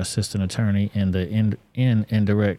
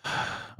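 long unvoiced sigh, breathing out the strain; heavy weary exhale; stressed sigh; 12 dB quieter than usual. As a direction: let the breath out like a tired pregnant wife. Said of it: "You can tell how she's breathing".

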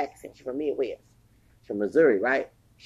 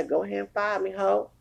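defiant dare; 5 semitones higher than usual. Pretend. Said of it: "I'm gonna say".

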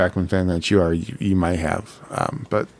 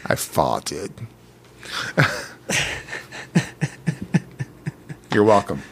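Fat Bastard; 4 dB quieter than usual. Acted. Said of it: "Fat Bastard, uh, from Austin Powers".

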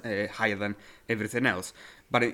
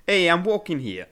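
loud, higher street call in a mock accent; Adam Sandler; 6 semitones higher, 6 dB louder than usual. Host quoting the star's first line, loud mock New York accent. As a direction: imitate a New Yorker calling out indignantly. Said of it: "Adam Sandler is".

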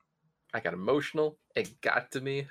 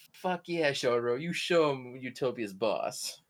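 mock cheering; 2 semitones higher than usual. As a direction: pump up your buddy. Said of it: "It's like".

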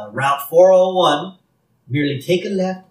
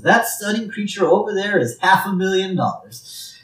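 lightly acted saleslady, raised pitch; saleslady's pitch; 6 semitones higher than usual. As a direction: talk up the prize animal in a higher voice. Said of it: "And she says".

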